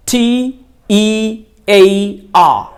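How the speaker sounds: slow, letter by letter spelling of T E A R; spelled out letter by letter. Shown as a demonstration. Teacher spelling the word out slowly for students. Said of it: "इसका correct pronunciation".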